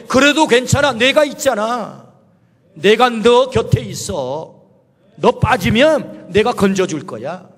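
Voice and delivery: slow, tender comforting voice; reassuring Lord. Acted. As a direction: soothe a sinking friend, slowly. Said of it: "진짜 말씀은 뭐예요".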